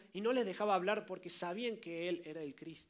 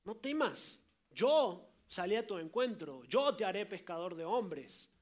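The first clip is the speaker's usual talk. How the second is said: tender invitation; 4 dB louder, slower than usual. Acted. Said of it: "el Señor te dice".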